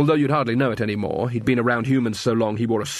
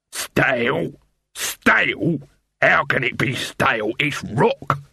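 shouting after; slower than usual. Acted. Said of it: "shouted Dibbler after them".

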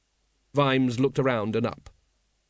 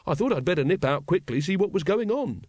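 bright; 5 semitones higher than usual. Acted. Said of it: "he said brightly".

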